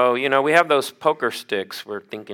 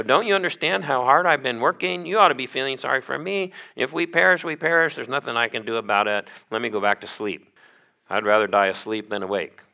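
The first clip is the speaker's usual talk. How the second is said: grumpy reproach; 2 semitones higher, faster than usual. Retold or imitated. Preacher playing himself scolding the disciples, mock exasperated. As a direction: snap back like a tired man woken for nothing. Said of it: "if I'd been there and they were reproaching me".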